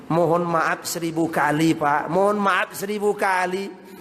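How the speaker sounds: courteous begging of pardon, drawn out at the end; polite Javanese apology. Acted. Preacher translating the in-law's greeting at the door, very politely. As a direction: apologise politely, stretching the last phrase. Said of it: "Jawa kalau ngomong luar biasa santun".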